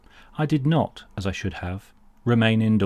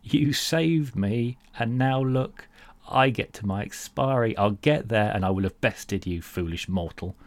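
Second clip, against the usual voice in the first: smirking villain. Retold or imitated. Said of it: "you smirk, saying".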